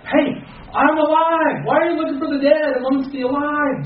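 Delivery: lightly acted triumphant Jesus; voicing risen Jesus. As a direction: announce it like a jubilant risen Christ. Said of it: "he said".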